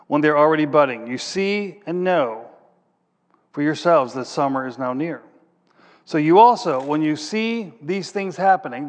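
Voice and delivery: emphatic reading of the parable; preacher reading the fig tree parable, emphatic; scripture reading. Acted. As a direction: read it out like a preacher proclaiming. Preacher reads scripture aloud.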